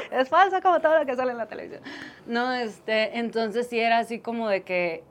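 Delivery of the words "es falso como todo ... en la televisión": giggling through the words, pitched higher and louder; laughing quote; laughing while quoting. Retold or imitated. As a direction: laugh it out, mocking how fake it all is. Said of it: "Y dices".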